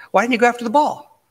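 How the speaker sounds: high, pressing question at the player; imitating a furious coach; mock scolding coach.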